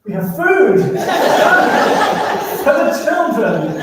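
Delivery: can't keep a straight face while repeating it; laughing retelling. Retold or imitated. Journalist on the radio to the navy, cracking up mid-line. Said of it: "I pick up the radio and I go".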